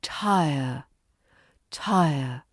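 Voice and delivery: "Tire." with a light schwa ending; "Tire." TIE-uh, ending barely there. Shown as a demonstration. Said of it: "we pronounce the ending schwa lightly".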